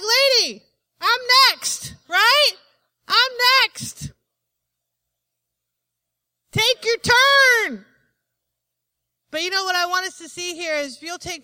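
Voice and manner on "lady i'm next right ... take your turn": loud, high pushy complaint; impatient father. Retold or imitated. Frantic father telling the woman to wait, loudly exasperated. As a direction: insist you're next, exasperated. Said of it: "You'd be like".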